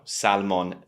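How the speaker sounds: salmon slowly as "SAL-mon"; salmon said as spelt, L and all; audible L, wrong. Shown as a demonstration. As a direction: draw out salmon with the L sounded. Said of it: "letter that's not pronounced is the L".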